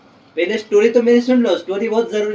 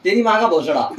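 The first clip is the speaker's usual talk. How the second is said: mock-brave retort to the villager; retold bold retort; 3 semitones higher than usual. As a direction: act unafraid, slightly raised. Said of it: "तो मैंने बोला".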